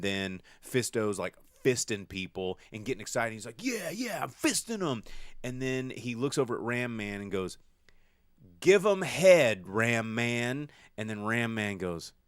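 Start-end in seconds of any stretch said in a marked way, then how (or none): 3.6-5.0 high, excited boasting; gleeful Fisto. Retold or imitated. Retelling Fisto celebrating in battle, high excited voice. 8.6-10.7 loud, slow, higher rallying cry; calling out. Retold or imitated. Fisto shouting encouragement to Ram Man, loud slow call.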